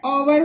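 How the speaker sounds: ओवर with no h at the start; ओवर, h left out; silent H. Shown as a demonstration. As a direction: pronounce hour as vowel-first ओवर. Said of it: "इसका उच्चारण English में ओवर होगा".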